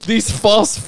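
news statement. Pretend. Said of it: "do news station".

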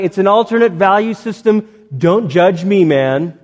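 hammed-up chill guy brushing off sin; mocking relativist. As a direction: lampoon the laid-back excuse-maker.

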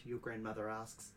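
usual speaking voice

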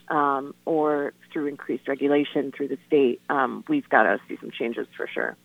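phone line sound; speaking down a phone line; over the phone. Real, not acted. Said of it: "we're on the phone r-, uh, right now with Katie".

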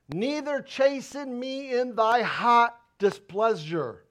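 slow, solemn Bible reading; measured preacher reading the psalm; scripture reading. Acted. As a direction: read the verse with reverence. Reads scripture aloud.

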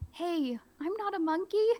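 high, offended squeal; mock indignant. Teacher denying being a monkey, mock indignant. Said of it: "I'm really trying to play it up".

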